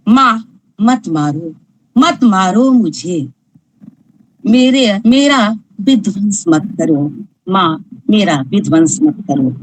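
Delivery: lightly voiced unborn girl begging her mother, a touch of sorrow; pleading unborn daughter. Unborn daughter begging her mother to spare her, lightly pleading.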